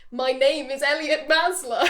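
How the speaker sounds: slow, measured game-character introduction; game dialogue line. Retold or imitated. Player picks a line to greet everyone, measured introduction. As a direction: read it out slowly as a set line. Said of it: "the dialogue option that you could pick".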